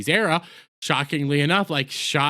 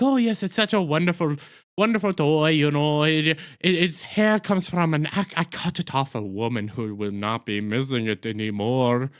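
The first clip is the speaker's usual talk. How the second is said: bad German accent. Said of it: "That is exactly what Neil Patrick Harris's, uh, German accent is".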